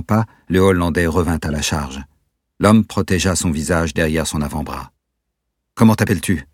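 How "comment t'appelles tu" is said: higher, louder, sharp demand; curt tone. Acted. Peter interrogating the man, curt sharp demand. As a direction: bark the question short. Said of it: "d'un ton sec".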